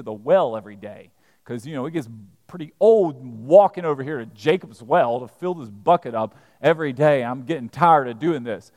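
wry, lightly acted complaint; sarcastic. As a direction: play her as not quite straight-faced. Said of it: "not straight-faced".

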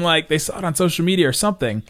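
ordinary talk, nothing marked

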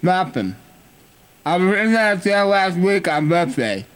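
slurred numb-mouth speech; numb from the dentist. Pretend. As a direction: talk like your lips are numb. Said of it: "And my lips are numb".

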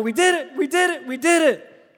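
overjoyed repeating; joyful stranger. Retold or imitated. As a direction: celebrate with a stranger mid-hug.

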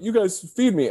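mean every word of the thanks; genuine thanks. Retold or imitated. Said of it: "so genuine, like".

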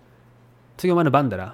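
quick Mikawa Japanese, "だろ" said as "dara"; Mikawa dialect. Shown as a demonstration. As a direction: say it fast in hometown Mikawa dialect. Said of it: "Mikawa dialect".

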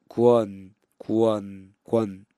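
くわ run together quickly into one syllable 권; fast 권. Shown as a demonstration. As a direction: say 권 fast as one clean sound. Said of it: "それを早く発音して".

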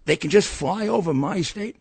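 high, loud indignant protest; mock outburst of disbelief; outraged senator. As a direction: imitate her going nuts, voice shooting up and loud. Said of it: "She went nuts".

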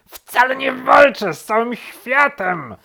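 very high, loud objection; worked-up rabbit protesting at full voice; indignant protest. A narrator's reading. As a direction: squeal out a furious denial. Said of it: "zaprotestował królik".

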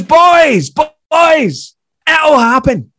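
high, loud imitated shout down a street; Billy Connolly shouting. Famous comic shouting after two departing comedians. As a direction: call after them with a drawn-out cry. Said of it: "he then shouts after us".

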